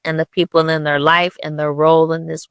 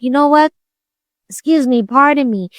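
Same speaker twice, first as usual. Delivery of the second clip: eager call-back; 7 semitones higher than usual. Retold or imitated. Man comes back to ask.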